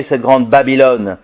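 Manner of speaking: measured, ringing proclamation of prophecy; solemn scripture reading. Acted. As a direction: proclaim the apocalyptic text to the room. Reads Apocalypse aloud to audience.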